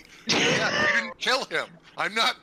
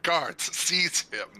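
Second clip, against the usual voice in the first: slow commanding decree; tyrant king; slower than usual. Acted. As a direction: order the guards like a king. Mock royal command to guards.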